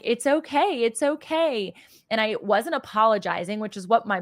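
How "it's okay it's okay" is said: reassuring friend. Retold or imitated. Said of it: "she kept saying".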